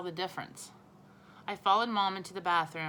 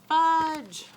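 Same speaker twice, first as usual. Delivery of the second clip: loud, much higher angry shout of the name; 10 semitones higher, 11 dB louder than usual. A narrator's reading. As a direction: yell for the boy, alarmed and cross. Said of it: "Then she shouted".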